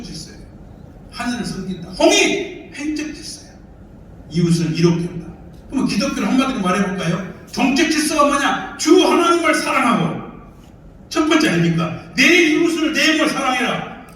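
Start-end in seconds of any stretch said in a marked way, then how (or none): 1.9-2.7 high, loud slogan call; emphatic cry. Real, not acted. Lecturer proclaiming the second idea, high and loud. Preaching key word to audience. 12.2-14.1 이웃을 punched in a loud, high preaching shout. Acted. Preacher booming the commandment at the audience, loud and high.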